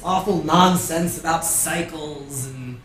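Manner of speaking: high, loud coaxing call; pleading knight voice. Acted. NPC Sir Balin pleading.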